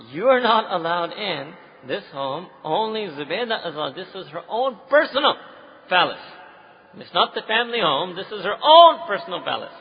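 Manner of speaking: a hint of a firm doorman; stern gatekeeper. Gatekeeper voiced in story.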